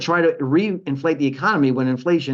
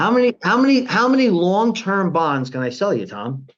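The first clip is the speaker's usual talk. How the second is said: mock bond seller; 4 semitones higher, 3 dB louder than usual. Acting Treasury pitching bonds to host.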